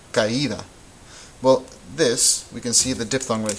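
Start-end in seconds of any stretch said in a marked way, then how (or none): 0.1-0.6 caída in three syllables, ca-Í-da; hiatus pronunciation. Shown as a demonstration. Teacher contrasting caída with baile, hiatus pronunciation. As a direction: keep a and stressed í apart in caída. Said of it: "You should hear three syllables".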